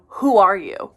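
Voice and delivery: retold mild disbelief, not angry. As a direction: ask it as if you can't quite believe it. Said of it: "she said it in a way of, like, disbelief".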